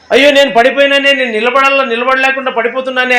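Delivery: mock weeping lament; anguished lament. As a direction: wail out Peter's fall. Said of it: "అని ఆయన ఏడ్చినాడు".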